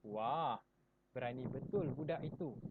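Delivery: a loud, awed "Wah"; amazed. Shown as a demonstration. Teacher demonstrating to pupils, amazed. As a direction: marvel at the brave boy. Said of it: "perasaan hairan ataupun kagum".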